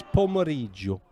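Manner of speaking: pomeriggio said slowly, each syllable clear, Italian rolled r; slow Italian word. Shown as a demonstration. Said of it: "your Bon Motson of the week".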